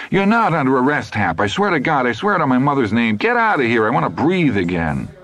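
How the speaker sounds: high, desperate, begging voice; pleading sergeant. A narrator's reading. Duty sergeant begging Hap to leave, high and desperate. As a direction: beg him to leave so you can breathe.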